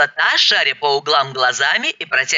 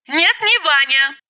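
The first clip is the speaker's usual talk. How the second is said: mild call after; 10 semitones higher than usual. Acted. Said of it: "крикнула я ей вслед".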